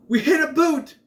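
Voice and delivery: high shouted quote; imitating a yell. Buffy holding up the boot, a high mock shout. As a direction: yell it up high like a startled teen. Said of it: "Buffy grabs the boot and goes".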